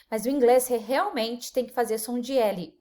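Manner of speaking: ordinary delivery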